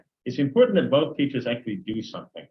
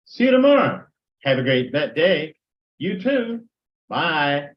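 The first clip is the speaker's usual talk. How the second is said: cheery goodbye; 3 semitones higher, 5 dB louder than usual. Shown as a demonstration. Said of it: "How do you do this?".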